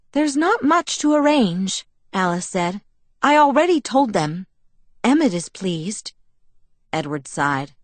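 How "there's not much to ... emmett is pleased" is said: higher, bright chirpy pixie; perky Alice voice. A narrator's reading. Alice to Edward, brushing off his plans, pert. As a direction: talk fast and pleased with herself.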